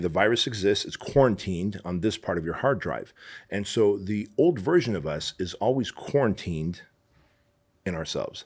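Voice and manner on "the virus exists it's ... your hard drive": ordinary talk, nothing marked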